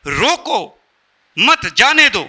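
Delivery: रोको alone, pause, then मत जाने दो; pause after रोको. Shown as a demonstration. Speaker showing how phrasing changes meaning, pausing after रोको. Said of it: "comma".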